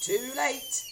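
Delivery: high, loud, satisfied; pleased husband. A narrator's reading. Husband pleased about grandma. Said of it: "looking pleased".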